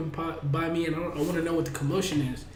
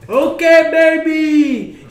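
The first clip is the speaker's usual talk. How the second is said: high, loud party MC; host a twerk contest on stage, all showman; hyped MC voice; 12 semitones higher, 14 dB louder, much slower than usual. Retold or imitated.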